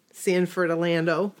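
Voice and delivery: lightly voiced old person; a hint of an elderly speaker. Shown as a demonstration. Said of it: "You said it like an old person".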